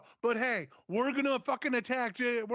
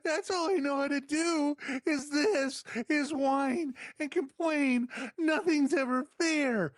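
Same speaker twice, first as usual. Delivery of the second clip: whiny Drew McIntyre; 4 semitones higher than usual. Retold or imitated. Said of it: "I'm Drew McIntyre".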